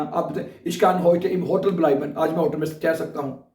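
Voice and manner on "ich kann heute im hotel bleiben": German words laid out slowly; teacher pace for repeating; slow model sentence. Shown as a demonstration. Teacher shows a sentence for students to copy, slow. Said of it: "जो काम आप कर सकते हैं ना".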